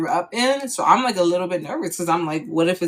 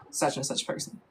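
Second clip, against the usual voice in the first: whispered aside; 3 semitones lower, 10 dB quieter than usual. Shown as a demonstration. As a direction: whisper the placeholder name, almost no voice. Placeholder name said under breath.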